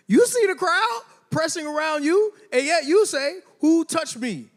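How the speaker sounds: high, amused disciples' protest; laughing disciples. Acted. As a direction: laugh through the disciples' line.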